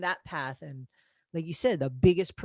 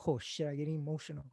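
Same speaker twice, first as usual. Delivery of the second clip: choked up; 5 semitones lower, 13 dB quieter, faster than usual. Retold or imitated. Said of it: "And then he said".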